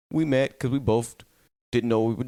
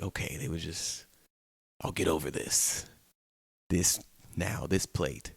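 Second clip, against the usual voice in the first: put-on sulky child; 4 semitones lower, 8 dB quieter than usual. Child after a whooping, sulking.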